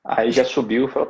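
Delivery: ordinary talk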